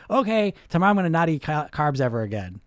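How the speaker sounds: irrationally cocky. Retold or imitated. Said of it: "irrationally cocky every time".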